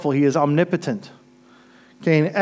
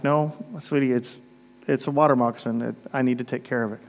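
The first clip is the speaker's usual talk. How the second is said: gentle correction; 3 semitones lower, 5 dB quieter than usual. Retold or imitated. Gently correcting a little girl.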